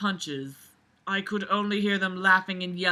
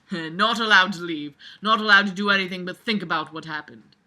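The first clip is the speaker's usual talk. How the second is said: laughing; 5 dB louder than usual. Real, not acted. Laughing at the text.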